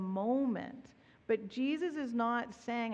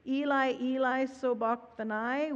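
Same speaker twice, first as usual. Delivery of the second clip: mild cry out; 2 semitones higher, 4 dB louder than usual. Retold or imitated. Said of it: "cried out in a loud voice".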